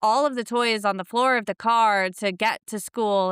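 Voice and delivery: venting about a chaotic school run; stressed-out mock complaint; frazzled mom. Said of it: "when I'm like".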